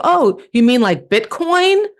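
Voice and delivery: mock innocence. Mock-naive comeback to producer.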